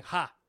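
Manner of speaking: one deliberate, dry "ha"; imitated single laugh. Retelling a funny video to co-host, imitated single laugh. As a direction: fake a lone laugh syllable. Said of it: "he just starts going".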